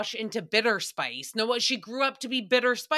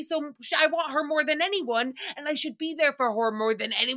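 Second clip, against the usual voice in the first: higher pitched mock earnest husband; acting as husband; 4 semitones higher than usual. As the ideal husband talking to his wife, a singer, higher pitch. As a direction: plead like the husband she wants, mock earnest. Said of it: "I'm like".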